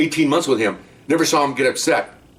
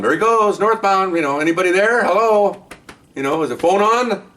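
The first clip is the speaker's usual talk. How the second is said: higher, louder urgent mock radio call; calling into the wire; 9 semitones higher, 3 dB louder than usual. Undercover cop calling backup over the wire, urgent higher. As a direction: call out to backup who isn't there.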